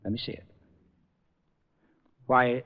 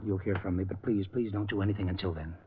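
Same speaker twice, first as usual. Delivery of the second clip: low, softer secretive voice; nervous hushed aside at the door; 3 semitones lower, 6 dB quieter than usual. Acted. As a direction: keep it down so the wife can't hear. Husband hiding talk from wife.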